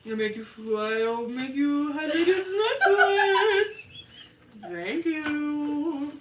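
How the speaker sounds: drawn-out, laughing creepy croon; sleazy daddy voice. Pretend. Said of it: "Can you talk in that voice all the time?".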